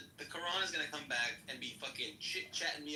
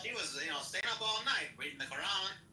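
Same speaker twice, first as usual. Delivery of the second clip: mock mid-Atlantic accent; 4 dB louder than usual. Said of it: "mid-Atlantic accent".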